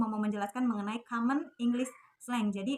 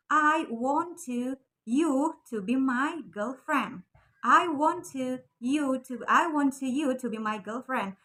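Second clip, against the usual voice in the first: careful full form; slower than usual. Shown as a demonstration. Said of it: "Berarti kalau misalkan pakai want to".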